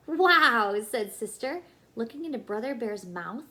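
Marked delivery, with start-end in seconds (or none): 0.1-0.8 loud, high wow of wonder; amazed wow. Acted. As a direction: gasp it out in delight. Sister amazed at mirror.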